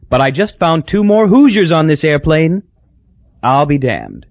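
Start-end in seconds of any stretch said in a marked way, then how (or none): 0.1-2.6 Hazel's voice. Acted. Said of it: "she said".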